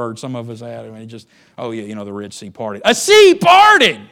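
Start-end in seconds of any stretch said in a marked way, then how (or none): 1.6-2.8 offhand, lower-pitched, everyday delivery; casual familiarity. Retold or imitated. Churchgoer who has heard the story forever, offhand. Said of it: "I know we've heard it since". 2.8-4.0 huge, high, drawn-out shout of wonder; amazed shout. Real, not acted. Preacher jolting those used to the story, amazed shout. Same words redone in amazement.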